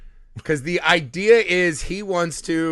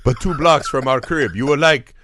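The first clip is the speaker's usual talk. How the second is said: loose, uncertain put-on foreign accent; lightly hammed-up foreign accent, vaguely Dracula; mock foreign accent; 3 semitones lower than usual. Mummy inviting her to a hookah bar, mock foreign accent. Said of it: "I don't know what accent I'm doing".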